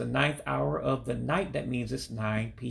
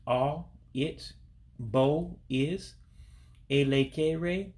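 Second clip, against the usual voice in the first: slow, syllable by syllable; much slower than usual. Shown as a demonstration. Teacher to learners, breaking the Igbo phrase into slow syllables. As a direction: break "Abo" into "A, it, bo" and pause after each piece. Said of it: "let's go ahead and say it slow".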